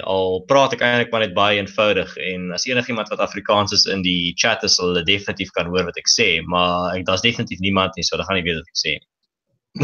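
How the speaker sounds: native Afrikaans with rolled R's. Shown as a demonstration. South African guest demonstrates his mother tongue to the host, in Afrikaans. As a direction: chat on fluently in Afrikaans. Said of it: "if I speak Afrikaans, I, f-, I sound like this foreign".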